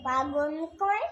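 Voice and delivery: lilting, measured recital of a verse; poem recitation. Acted. Reciter performing Sukumar Ray's poem for listeners, lilting recitation. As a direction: recite line by line, pausing between phrases, questions sung out.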